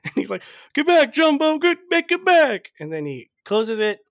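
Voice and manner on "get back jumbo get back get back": high, loud repeated get back; mock yelling. Cat yelling at the elephant trunk, high loud mock shout.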